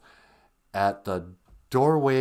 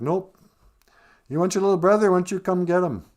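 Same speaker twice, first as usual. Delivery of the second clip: taunting villain; 10 semitones higher, 6 dB louder, faster than usual. Retold or imitated. The villain taunts the girl.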